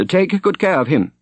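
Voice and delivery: an anxious prior giving orders. A narrator's reading. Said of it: "frowning anxiously over the young man's bed".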